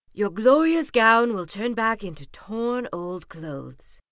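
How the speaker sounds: a gentle godmother laying down the rule; kindly fairy godmother. Acted. Fairy godmother warns Cinderella.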